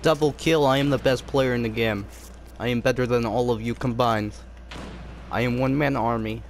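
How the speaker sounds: low, smug boasting gamer voice; sexy voice. Pretend. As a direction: purr the brag low and cocky. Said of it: "Sexy voice".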